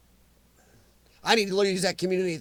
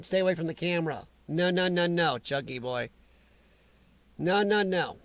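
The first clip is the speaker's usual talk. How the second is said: scolding the dog; 3 semitones lower, 5 dB quieter than usual. Real, not acted.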